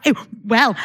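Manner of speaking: a hint of mock Scouse; Scouse mum impression, lightly done. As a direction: try out a Scouse accent. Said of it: "I'm doing Scouse accent now".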